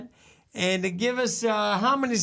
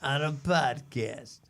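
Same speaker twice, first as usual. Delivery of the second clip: radio countdown host; 5 semitones lower than usual. Pretend. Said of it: "I'm Carson Kasem".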